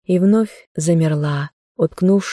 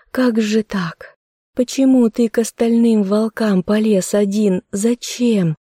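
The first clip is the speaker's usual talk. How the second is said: distressed pleading; 5 semitones higher than usual. Acted. Girl pleads with her wounded bear, distressed. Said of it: "не успокаивалась она".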